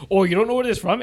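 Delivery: teasing, sing-song mock of her question; mocking mimic. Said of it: "She literally said".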